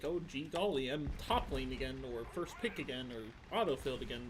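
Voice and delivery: understated mock amazement; lightly sarcastic gee-whiz, settling into weary listing. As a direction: feign delight at yet another bad draw. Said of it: "using it in a sarcastic way".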